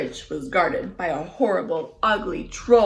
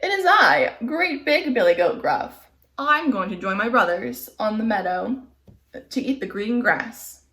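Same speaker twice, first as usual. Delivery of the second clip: big goat voice; 2 semitones higher than usual. Acted.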